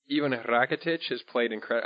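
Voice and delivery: a light, unplanned Spanish accent on the names. Real, not acted. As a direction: slip into a faint Spanish accent mid-sentence. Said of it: "I said it with Spanish accent".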